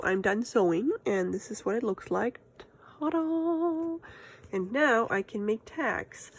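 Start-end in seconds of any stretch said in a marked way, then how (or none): 3.0-4.0 ta-da reveal. Real, not acted. Reveals finished sewing.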